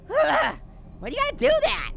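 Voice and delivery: shaken whine. Real, not acted. After jump scare, high.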